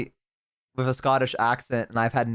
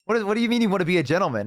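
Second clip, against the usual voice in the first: baffled, rapid; 4 semitones higher, much faster than usual. Retold or imitated. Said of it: "we're like".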